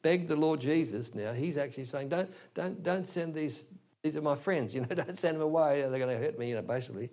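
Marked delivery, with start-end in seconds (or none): 2.1-6.5 mildly acted plea, a little higher; pleading demoniac. Demoniac begs the Lord not to send his friends away, mildly pleading. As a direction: lightly voice a man begging for his companions. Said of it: "is now begging".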